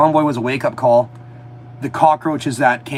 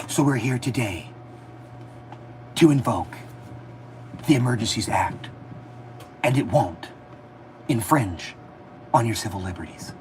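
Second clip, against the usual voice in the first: mocking politician; 5 semitones lower, 8 dB quieter than usual. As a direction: drag every word out like a stalling speech. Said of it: "that's how he talks".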